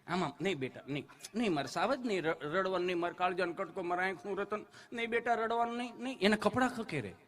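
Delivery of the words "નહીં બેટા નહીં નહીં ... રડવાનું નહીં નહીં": softer, cooing mock mother; mother hushing her crying little son, softly cooing; doting mother consoling. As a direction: comfort the sobbing child tenderly.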